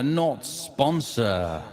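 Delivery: drawn out with heavy reverb; echoing catchphrase, slow. Shown as a demonstration. Sponsor segment catchphrase with reverb.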